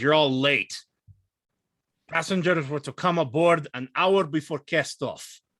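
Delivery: mildly irritated, peeved, put-out tone. Voicing an older sailor greeting late passengers: irritated sailor. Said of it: "gets a little irritated".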